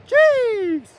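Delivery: sudden high yelp of shock; startled exclamation. Real, not acted. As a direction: blurt it out in fright. Looking at friend on edge.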